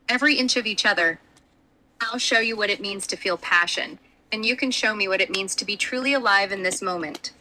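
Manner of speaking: low, seductive voice; sultry tone. Acted. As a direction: lean in and seduce, low and close. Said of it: "my voice drops to a sultry tone".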